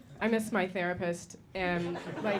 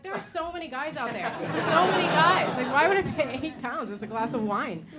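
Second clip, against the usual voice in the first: exasperated rant; 5 semitones higher, 7 dB louder than usual. Retold or imitated. Outburst at Bumble.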